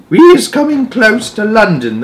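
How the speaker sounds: lightly excited giant nearing the city; giant's voice. A narrator's reading. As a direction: announce it like a big gentle giant. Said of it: "the B F G said".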